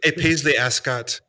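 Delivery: lightly hammed-up aristocrat, laughing; posh gentleman. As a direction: play a pompous gent with scotch. Joking posh gentleman persona.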